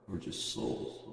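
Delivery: hushed stoned wonder; hushed stoned awe. Retold or imitated. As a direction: breathe it like a cosmic revelation. Stoned musing, awed.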